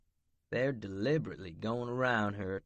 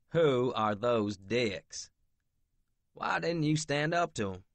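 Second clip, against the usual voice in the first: angry; 5 semitones higher, 6 dB louder than usual. Acted. Angry demand to Ivy.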